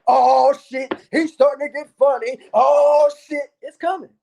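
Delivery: imagined fans hyped. Pretend. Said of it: "the night that I like".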